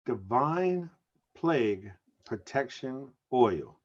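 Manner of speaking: slow, low, disbelieving repeat of the product name; incredulous repeat. Real, not acted. Co-host repeating the oil's name in disbelief, mock awe. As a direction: savor each word with mock awe. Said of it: "repeating the phrase in disbelief".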